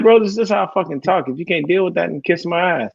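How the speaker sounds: retold irritated comeback; indignant retort. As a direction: tell them off, unapologetic. Retold retort to offended people.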